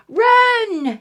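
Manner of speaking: loud, high urgent shout; shouted run. Acted. Mom ordering Eddie away, loud shout. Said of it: "shouted Mom".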